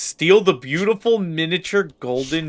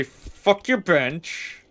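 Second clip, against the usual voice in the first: slow mock defiance; 3 semitones higher, much slower than usual. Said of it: "I'm gonna say".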